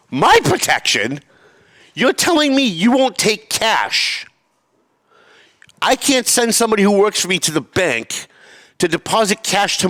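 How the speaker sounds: high-pitched, indignant tirade at a manager; retold angry rant. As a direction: re-enact chewing out a bank manager, incredulous. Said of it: "I'm in the middle of screaming at her".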